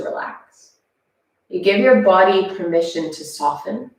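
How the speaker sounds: guided relaxation. Acted. Guides breathing in child's pose.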